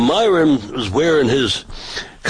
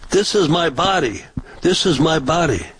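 raised, mimicked protester scream; mock screaming; 5 semitones higher than usual. Retelling a screaming protester, mock shriek. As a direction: imitate her shrieking at him. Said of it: "she starts screaming to me".

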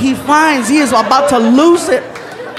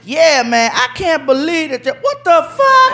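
shocked outburst; 5 semitones higher than usual. Retold or imitated. Guest reading the card, pleased turning to outrage. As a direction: start pleased, then blow up in disbelief.

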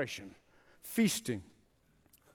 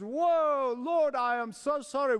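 awestruck repentance; 5 semitones higher than usual. Acted. Sinner crying to the Lord on first seeing, startled repentance. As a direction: exclaim as if eyes just opened. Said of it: "opened those eyes and said".

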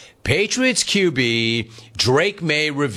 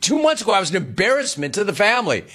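mock outrage; 5 semitones higher, much faster than usual. Mocking the family's turnaround.

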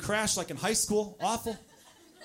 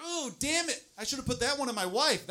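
regretful ooh; 9 semitones higher than usual. Acted. Acted regretful reaction.

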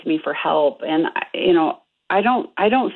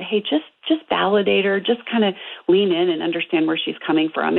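usual speaking voice

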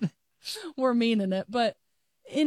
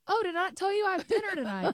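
mock innocent; 9 semitones higher than usual. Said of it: "I'll go".

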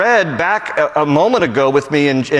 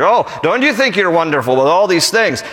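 mildly mocking paraphrase; a little sarcastic. Preacher paraphrasing Paul to his proud readers, a little sarcastic. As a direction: lightly feign admiration, with a touch of sarcasm. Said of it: "he's a little sarcastic here".

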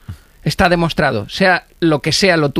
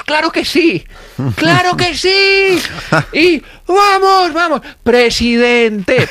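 crowd cheering; 11 semitones higher, much slower than usual. Retold or imitated. The crowd hailing the impostor as president, high slow cheers. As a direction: whoop like an ecstatic crowd.

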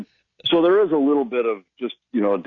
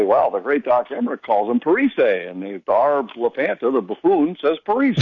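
mocking fans. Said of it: "Wild fans that would say".

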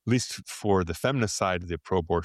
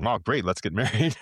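acted-out glad reaction, a little higher pitched; mock enthusiasm; 4 semitones higher than usual. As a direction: imitate an eager partner with a light laugh. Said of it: "as lack of enthusiasm. So anything less than".

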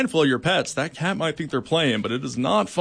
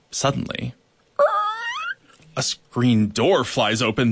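storytelling. A narrator's reading. Story narration read aloud.

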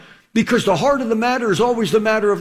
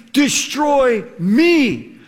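a slow, drawn-out shout; Jesus' slow shout; much slower than usual. Retold or imitated. Jesus crying out to his accusers, slow shout. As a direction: call it out with full force. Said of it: "He was saying".

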